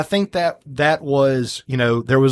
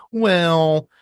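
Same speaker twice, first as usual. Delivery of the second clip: lightly voiced modern producer; a hint of a smug producer; brash movie producer; 5 semitones higher than usual. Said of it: "is that your modern day voice?".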